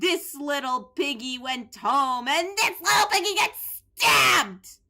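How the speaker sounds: nursery-rhyme lilt ending in a shout; sing-song rhyme. Acted. Gamer reciting a twisted nursery rhyme, ending with a shouted stab. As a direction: recite like a creepy counting game.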